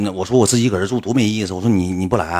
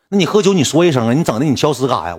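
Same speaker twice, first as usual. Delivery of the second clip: scolding boss; 4 semitones higher, 3 dB louder, faster than usual. Retold or imitated.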